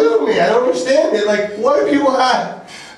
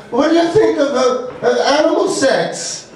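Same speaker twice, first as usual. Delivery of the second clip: imitating his Russian girlfriend, higher voice, Russian accent; 5 semitones higher than usual. Boyfriend quoting his Russian girlfriend's question, mock Russian accent. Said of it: "She's Russian, that's the accent".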